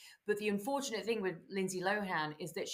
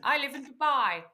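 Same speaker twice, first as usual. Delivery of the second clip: mock Arabic accent; 5 semitones higher, 3 dB louder than usual. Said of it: "that was her doing an Arabic accent".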